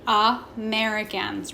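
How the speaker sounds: AMERICANS opened with a separate lazy "uh"; schwa sound. Shown as a demonstration. Teacher shows the lazy first A in Americans, sounded out. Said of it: "making that schwa sound".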